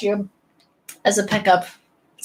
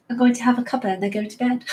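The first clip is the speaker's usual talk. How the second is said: put-on quick, playful British accent; mock-posh British English; faster than usual. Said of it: "I sound so posh".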